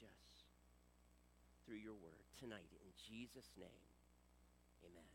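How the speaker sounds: petition to God, trailing down to a hushed amen; prayer. Real, not acted. Leads a prayer.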